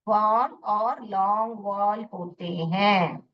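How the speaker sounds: वॉल और लॉन्ग वॉल said slowly and clearly; slow repeat. Shown as a demonstration. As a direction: spell out वॉल slowly for the class. (धीरे और साफ़ दोहराना)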